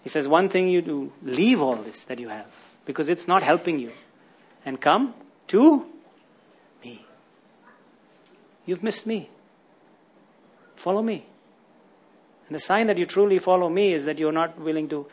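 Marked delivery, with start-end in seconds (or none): 0.3-11.2 gentle call of Jesus. Acted. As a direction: speak it like a quiet invitation. Preacher voices Jesus' gentle call.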